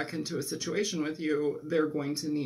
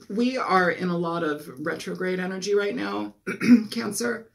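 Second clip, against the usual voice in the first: hoarse, strained voice; talking with a voice that's giving out; losing voice; 3 dB louder than usual. Real, not acted. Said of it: "I'm losing my voice".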